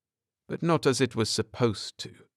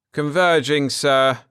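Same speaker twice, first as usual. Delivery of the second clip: crisp acknowledgment; 5 semitones higher, 5 dB louder than usual. Acted. Crewman acknowledges the order.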